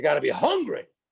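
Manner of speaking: preacher-like cadence, as from the pulpit. Quoting a motivational speaker's catchphrase: Les Brown impression. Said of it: "it sounds something like this".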